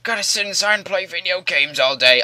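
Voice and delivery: high, put-on whiny loner voice; loner guy. A loner excusing himself to stay inside, mocking high voice. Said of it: "the guy who's like".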